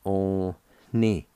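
"on ni" said as a clear separate syllable; teacher sounds out "on ni" for the learners; first part sounded out. Shown as a demonstration. Teacher sounding out the first part for learners, carefully. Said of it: "First part is pronounced like this".

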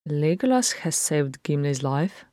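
statement lifted into a question at the end; questioning, uncertain. A narrator's reading. Farron to Philly about the elf saving Gimli, questioning. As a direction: say it tentatively, as if asking. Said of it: "his tone was questioning rather than certain".

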